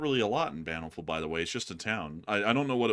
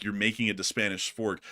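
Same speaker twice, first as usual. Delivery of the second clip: usual speaking voice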